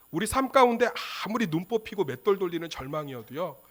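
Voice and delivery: normal talking voice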